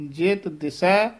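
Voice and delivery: ਜਿਤ ਦਿਸੈ slow, nothing doubled; soft consonants. Shown as a demonstration. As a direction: keep t and s light in ਜਿਤ ਦਿਸੈ. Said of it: "ਜਿਤ ਪੋਲਾ ਬੋਲਣਾ ਹੈ".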